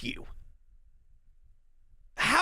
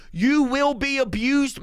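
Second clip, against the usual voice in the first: normal talking voice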